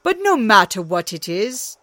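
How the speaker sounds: a hint of a stalwart god; Thor willing. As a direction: swear to do it, boldly. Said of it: "said Thor".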